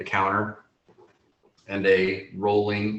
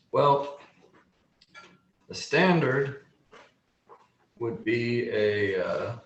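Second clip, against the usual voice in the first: lightly voiced gnome, hesitant; pondering gnome apothecary with long pauses; gnome shopkeeper. Gnome explains potion duration to a buyer, lightly voiced, pondering.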